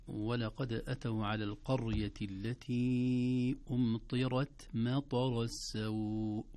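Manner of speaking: measured, drawn-out tajweed recitation; slow recited verse; slow Quran recitation. Shown as a demonstration. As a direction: recite it slowly and carefully. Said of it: "دعونا نبدأ".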